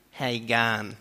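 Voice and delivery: broader western-suburbs drawl on "gun"; western-suburbs Aussie accent. Shown as a demonstration. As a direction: say "gun" as a flat "gahn", western Aussie style. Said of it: "if you live a bit more west than here".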